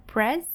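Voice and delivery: "pres" said firmly on its own; stressed syllable. Shown as a demonstration. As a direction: hit "pres" as the strong syllable. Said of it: "a sílaba mais forte".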